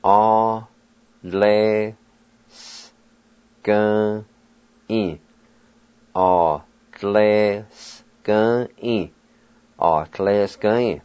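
"A, le, s, g, e" each sound set apart, the s and g barely voiced; Cherokee syllables. Shown as a demonstration. Teacher modelling the Cherokee word for turn off. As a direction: tap out "A, le, s, g, e" one sound at a time. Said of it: "Cherokee word for turn off".

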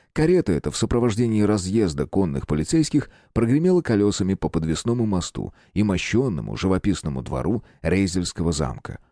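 ordinary delivery, nothing marked

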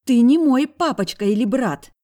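put-on high, loud angry girl's voice; high furious girl; hissing girl. A narrator's reading. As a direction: spit it at him like a snake. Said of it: "зашипела она змеёй".

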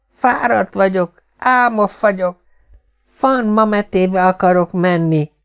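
high, slow whiny child fake-sobbing; hammed-up child crying, high and drawn out; child's fake crying. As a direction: whine it out like a little kid putting on tears. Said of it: "sírva fakadt, méghozzá a lehető legvalószínűtlenebb módon".

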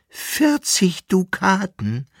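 high, slow, shocked shriek of disbelief. A narrator's reading. Jester shrieks at the emperor over the price, high and outraged. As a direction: cry out the sum in outrage. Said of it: "schrie der Brauser".

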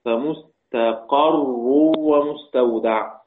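very slow فمستقر as "fa-mustaqarrun", with an a after the qaf; fatha on the qaf. Shown as a demonstration. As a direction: stretch out فمستقر with fatha on the ق, "qarr". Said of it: "بفتح القاف".

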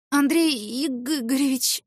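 slow, drawn-out name in shock; stunned greeting. Acted. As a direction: let his name stretch out in disbelief. Stunned to see her boss. (ошеломлённо, медленно)

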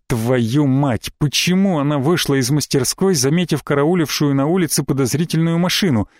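ordinary delivery

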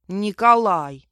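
put-on loud, drawn-out child's correction; displeased correction. A narrator's reading. Self-important boy correcting the librarian, displeased. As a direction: correct her with offended importance. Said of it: "недовольно поправил меня мальчик".

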